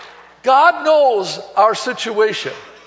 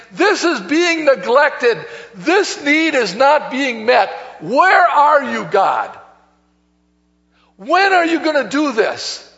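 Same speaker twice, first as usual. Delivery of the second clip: slow, raised voice crying where are you God; anguished plea to God; 4 semitones higher than usual. Acted. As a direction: plead with God like you've run out of patience. Worried person crying out to God.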